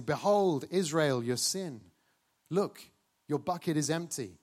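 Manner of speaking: loud triumphant call to the whole crowd; triumphant proclamation. Acted. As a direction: proclaim it to three hundred thousand people. High priest proclaims to nation.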